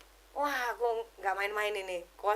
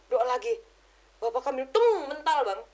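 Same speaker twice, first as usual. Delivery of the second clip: normal talking voice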